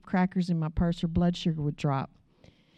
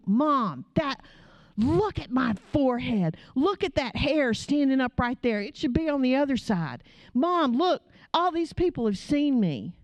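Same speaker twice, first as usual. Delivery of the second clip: imitating mad daughter; 5 semitones higher than usual. Daughter shows mom the picture at the mall, mock mortified. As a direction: point out every flaw, exasperated and pitched up. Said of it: "like, mad".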